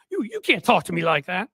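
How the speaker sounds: stammered mock affront; mock indignant Southern gentleman. Host voicing Jennings objecting to Abby, hammed-up indignation. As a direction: play him sputtering in protest. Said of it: "I know that's what he was thinking".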